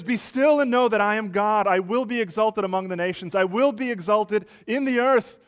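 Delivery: "Be still and know that I am God" lifted high and loud; a preacher's rising declaration; proclaiming loudly. Acted. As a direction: proclaim it over the nations. God's proclamation over the world.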